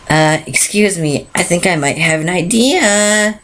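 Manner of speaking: a shy mock lisp, half-hearted; bad Fluttershy impression. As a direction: Pinkie mimicking Fluttershy, badly. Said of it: "in a reedy, lithing, sing-song ... curious lisp".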